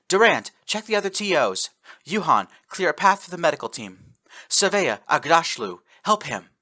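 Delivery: barked orders. Acted. Sergeant giving orders.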